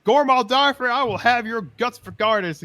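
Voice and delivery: high, loud mock yell; yelling boss. Vaca yelling at Gormal over the amulet, mock yell. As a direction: yell his full name in fury. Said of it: "started yelling".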